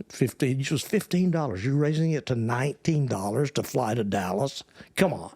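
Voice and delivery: indignant complaint over a price hike; mildly outraged, scolding at the end; angry protest. Acted. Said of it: "There's a lot of anger there".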